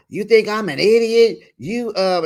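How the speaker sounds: hammed-up offended question; mock indignation. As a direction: imitate an affronted boyfriend confronting her. Acts out Joey's indignation.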